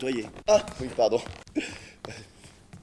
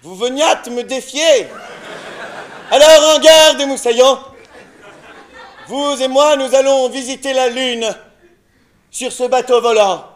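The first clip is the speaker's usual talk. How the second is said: pirate captain; 3 semitones higher than usual. Acted. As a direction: play a theatrical pirate captain. Improviser plays a pirate captain.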